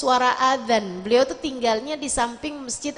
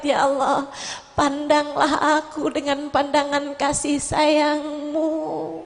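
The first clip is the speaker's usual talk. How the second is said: humble prayer. Acted.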